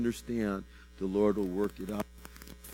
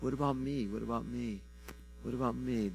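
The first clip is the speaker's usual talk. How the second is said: little cry; 8 dB quieter than usual. Retold or imitated. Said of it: "it'd be a little cry".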